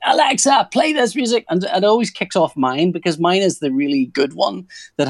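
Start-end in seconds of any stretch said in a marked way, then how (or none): 0.1-1.4 lightly voiced kid, higher; a hint of a child calling the speaker; mock kid call to the speaker; kids calling Alexa. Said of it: "my kids go".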